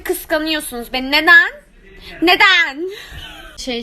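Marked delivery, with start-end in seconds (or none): 1.1-1.5 sharp rising cry of why; loud why. Pretend. Yüksek sesle sorma. 2.2-2.9 laughing through the word. Pretend. Gülerek sorma.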